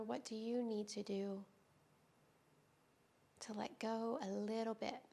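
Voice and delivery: calm, unhurried yoga teacher with long pauses; guided yoga meditation. Real, not acted. Teacher easing students into restorative yoga, calm guided-meditation delivery. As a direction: guide them gently through breath and stretch, leaving space between phrases.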